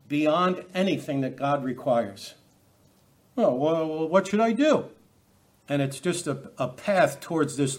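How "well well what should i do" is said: mock-sarcastic question. Preacher voicing the people's reply to God, sarcastic. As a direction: throw it out as a mock-helpless question. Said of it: "it's kind of sarcastic".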